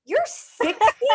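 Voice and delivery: high, slow disbelieving question; surprised question. Real, not acted. Host hearing the guest's age, high and slow in disbelief. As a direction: sound truly stunned by the number.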